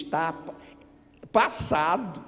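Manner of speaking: normal talking voice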